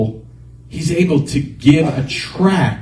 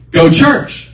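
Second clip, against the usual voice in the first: high, loud order; insistent inner voice; 11 semitones higher, 5 dB louder than usual. Retold or imitated. Voice arguing with the driver, loud insistence. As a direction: overrule him forcefully. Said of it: "that voice came again and said".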